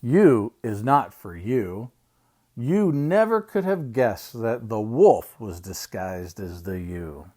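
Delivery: measured picture-book reading; reading to children. Acted. Uncle reading an alphabet book to children, storytime reading. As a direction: read it out slowly for little listeners.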